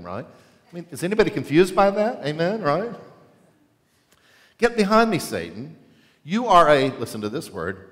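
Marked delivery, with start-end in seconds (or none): 4.6-6.9 stern rebuke. Retold or imitated. Jesus rebukes Peter again.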